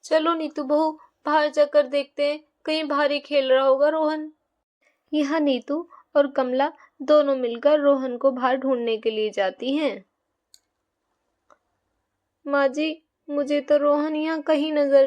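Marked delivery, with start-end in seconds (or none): 5.1-10.0 lower, calm storyteller voice; children's story narrator; story narration. A narrator's reading. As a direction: narrate the scene change evenly. Storyteller narration between scenes.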